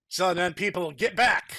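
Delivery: shouted order to get back; father yelling for everyone to clear out; loud call. Acted. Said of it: "said out real loud".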